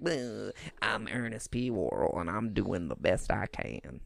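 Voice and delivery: bad Ernest voice. A friend tries Ernest for a podcast, a bad low country drawl. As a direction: drag it out in a half-hearted Ernest drawl. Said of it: "I'm really bad at an Ernest voice".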